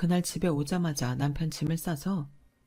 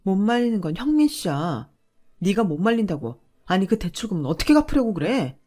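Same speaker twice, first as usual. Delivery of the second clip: louder, rising anger at husband; angry scolding; 5 dB louder than usual. Acted. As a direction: scold him for the loan. (대출 문제로 남편을 다그치는 아내, 화난 목소리)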